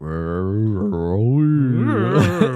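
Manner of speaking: drawn-out wordless rumbling growl; grumbling noises. Retold or imitated. Podcaster imitating the movie's score, grumbling noises. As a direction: imitate the sludge grumbling along.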